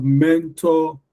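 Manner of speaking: "mentor" slowly, as MEN-TOR; both syllables emphasized. Shown as a demonstration. Teacher repeating examples, both syllables of "mentor" emphasized. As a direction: give "mentor" two full, slow beats. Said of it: "how I can emphasize them".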